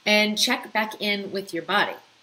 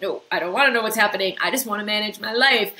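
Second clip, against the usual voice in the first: dismissive; 3 semitones higher, 6 dB louder, faster than usual. Retold or imitated. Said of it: "you've overridden this information, like".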